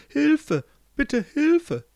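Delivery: high, loud cry for help; urgent plea for help. Acted. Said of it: "Das klang so dringend". (dringender, hoher Hilferuf)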